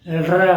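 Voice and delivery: tongue lightly bent, tapped र; slow clear र with a light tongue curl; demo r sound. Shown as a demonstration. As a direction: show the र clearly for a learner. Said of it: "अब एक बार यहाँ देखिए".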